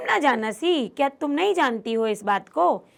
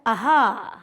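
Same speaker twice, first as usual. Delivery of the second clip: savoring, drawn-out delight; Chandan delighted by the scent; 5 dB louder, slower than usual. Acted. Chandan sniffs the laddoos, savoring delight. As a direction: relish the smell of sweets. Teacher voices Chandan smelling sweets.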